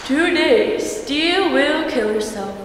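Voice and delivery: a touch of urgent news warning; mild newscaster roar. A narrator's reading. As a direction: announce it like a hurricane alert, understated. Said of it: "roared the newscaster".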